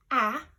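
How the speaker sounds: "ah" as a loud, clear short a; short a sound. Shown as a demonstration. Teacher loudly models "ah" for listening game. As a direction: punch out "ah" so kids hear the vowel. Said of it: "if you don't hear".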